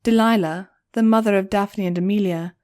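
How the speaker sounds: ordinary delivery, nothing marked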